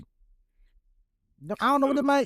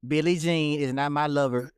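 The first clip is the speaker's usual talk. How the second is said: deadpan lyric reading; 6 semitones lower than usual. Pretend. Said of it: "Y'all see how".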